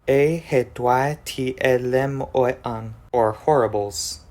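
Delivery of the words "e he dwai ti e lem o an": e he dwai ti e lem o an sounded out, slowing at the end; careful demo of e he dwai ti e lem o an, slowed at the end; conlang word demo. Shown as a demonstration. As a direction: present e he dwai ti e lem o an as the final answer. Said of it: "making the final product".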